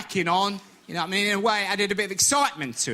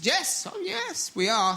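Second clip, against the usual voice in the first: mock coy wife; 11 semitones higher, slower than usual. Wife's playful reply.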